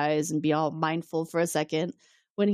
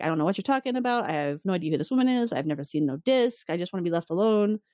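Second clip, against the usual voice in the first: lightly imitated grumpy denial, quick start; grumpy Picard. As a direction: brush him off with mild irritation. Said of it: "Picard is very grumpy".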